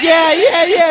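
mock rally cheer. Host imitating the candidate cheering on stage, mock excited. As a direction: pump the crowd up, half-joking. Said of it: "And he's like".

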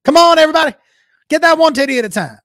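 put-on high, loud Southern-accented ad pitch; rally the crowd like a Southern TV doctor; loud, hammed-up Southern pitchman. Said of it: "that doctor with a Southern accent".

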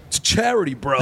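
mock him getting defensive; defensive bro voice. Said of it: "He's like".

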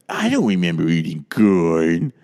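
slow, drawn-out Carol Channing voice; slow, hammed-up Carol Channing impression; Carol Channing accent. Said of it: "Everyone's favorite way to do her accent".

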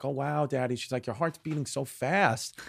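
imitating a softly sweet little girl; softly voiced, cuddled-up child; sweet daughter. Daughter cuddled on dad's chest, sweet and soft imitation.

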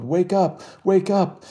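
high urgent shout; yelled. A narrator's reading. Young woman urging the crowd to act, urgent yell. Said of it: "a young woman in a plain gray smock yelled".

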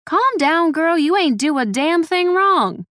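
high, slow, emphatic comforting; firm reassurance. A narrator's reading. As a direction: insist firmly that she's blameless. Grandmother firmly reassures panicking granddaughter.

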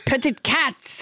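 mock-French accent, insisting; French Trump. French Trump repeats the demand to a puzzled host, French accent. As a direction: repeat it firmly in hammy French. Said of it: "with a French accent".

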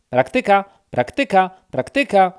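wysoko i głośno, trzy razy; dzięcioł. Acted. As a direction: ptasi zapał, stuk-stuk słowami. Dzięcioł powtarza z zapałem. (dzięcioł woła wysoko i głośno)

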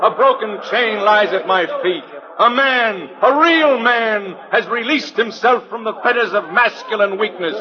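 grand sideshow barker spiel; booming carnival pitch to the crowd; florid victorian lecturer. Acted.

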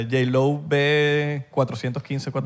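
slow, stiff robot model number. Pretend. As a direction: read it like a machine's serial. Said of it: "Un número, un Terminator".

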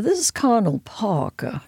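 whispered, lightly accented Colonel Parker impression. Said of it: "I don't do the accent well".

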